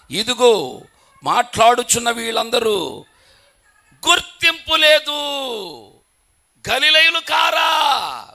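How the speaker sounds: loud, rising preacher's shout, slowing at the end; shouted crowd's question. Acted. Preacher voicing the astonished Jews to the congregation, loud slow shout. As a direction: bellow the crowd's amazed question.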